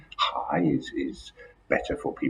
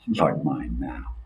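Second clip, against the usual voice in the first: slow, calm and even; unhurried, composed delivery like a polite meeting; slow calm speaking voice; slower than usual. Shown as a demonstration. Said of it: "a calm tone".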